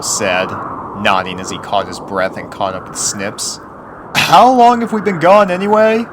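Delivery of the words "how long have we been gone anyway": put-on high, loud boy pony; young colt voice. A narrator's reading. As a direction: point it out like a kid. Snail voiced.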